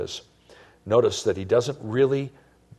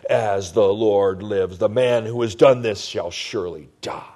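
quiet fury; 3 semitones lower, 4 dB louder than usual. Acted. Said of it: "his anger was greatly aroused".

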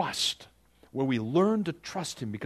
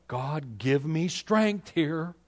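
mock prayer; 4 semitones higher, much slower than usual. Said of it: "we pray things like".

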